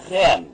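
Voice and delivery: "rem" as one separate, emphatic syllable; syllable read out. Shown as a demonstration. Teacher reading a syllable to learners, sounded out. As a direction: sound out "rem" clearly on its own. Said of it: "se vamos ler, então, esta sílaba".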